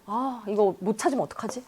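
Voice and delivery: softly voiced fretting, lightly acted; a touch of worry, said softly to oneself; worried. Ellen fearing she won't find it, quietly worried. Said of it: "걱정을 하는 거예요".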